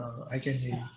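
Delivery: very low, faint voice; speaking too softly to hear; barely audible. Real, not acted. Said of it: "but your voice is very low".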